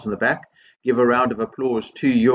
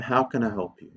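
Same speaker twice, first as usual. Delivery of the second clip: understated, sincere offer; from the heart; 3 dB quieter than usual. Shown as a demonstration. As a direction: ask it with quiet sincerity. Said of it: "If you say that from the heart".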